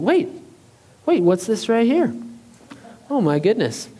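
hammed-up discovery with pitch leaping up; mock surprise. Preacher pretends to find a ram's horn before the crowd, feigned surprise. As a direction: pretend you have just stumbled on it.

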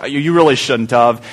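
slow, lightly voiced grateful wife; drawn out mock thanks; wife receiving flowers, slow mild gush; touched wife. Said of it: "And she said".

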